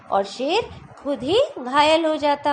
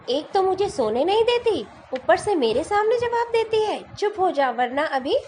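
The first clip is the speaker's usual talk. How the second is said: angry lion; 5 semitones higher than usual. Acted. Teacher voicing the lion snapping at the cheeky fly, angry. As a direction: scold the fly like an irritated king. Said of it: "शेर का गुस्सा बढ़ गया".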